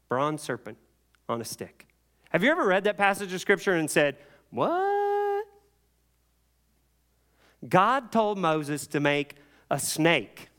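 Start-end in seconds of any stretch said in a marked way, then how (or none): 4.5-5.5 very high, drawn-out mock squeal; hammed-up incredulous question; baffled disbelief. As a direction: stretch it out in comic bewilderment. Baffled reader's reaction, acted.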